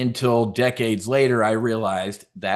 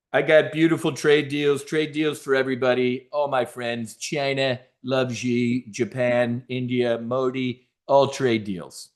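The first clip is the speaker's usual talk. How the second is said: Trump impression. Imitating Trump boasting.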